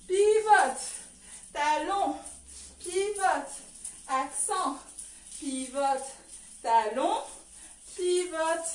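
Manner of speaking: loud sharp dance call; shouted count to the class; called-out cue. Shown as a demonstration. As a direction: bark the move over the music. Dance teacher calling moves to music.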